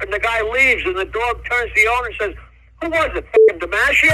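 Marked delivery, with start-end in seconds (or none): 2.8-4.2 louder punchline, laughing through it; punchline dog voice. Acted. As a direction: hit the dog's line hard, laughing on DiMaggio. Dog's punchline in joke.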